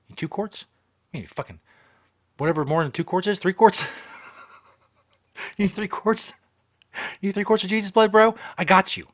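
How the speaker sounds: mock dealer getting carried away; hammed-up hustler. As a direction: pitch it like an eager back-alley dealer. Hamming up black-market blood sales.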